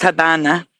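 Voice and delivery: Habana with B replacing the V; Spanish pronunciation. Shown as a demonstration. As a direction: say "Habana" as locals do, with a B. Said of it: "pronounce the V a B 'cause in Spanish".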